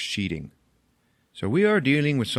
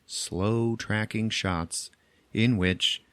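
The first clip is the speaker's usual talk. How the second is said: reading a quote; slower than usual. Retold or imitated. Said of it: "I want to read you a quote".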